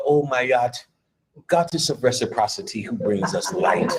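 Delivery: mock lofty spirit. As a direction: mimic a pompous spirit guide intoning. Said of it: "anybody in a lecture talk like that".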